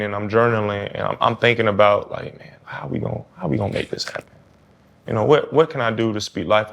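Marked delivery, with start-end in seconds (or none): 2.4-4.2 softly voiced inner thought; musing to himself. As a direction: wonder it aloud, much softer. Voicing own thoughts while journaling.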